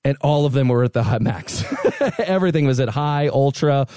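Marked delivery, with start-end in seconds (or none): none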